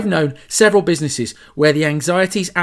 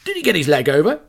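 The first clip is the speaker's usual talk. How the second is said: gossiping staff; 2 semitones higher, 5 dB louder than usual. Retold or imitated. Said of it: "They'll go".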